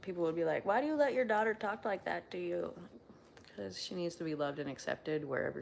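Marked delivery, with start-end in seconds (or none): 0.7-2.7 high-pitched scandalized question; mock disapproval. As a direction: imitate judgmental onlookers, pitched up. Acts out disapproving other people.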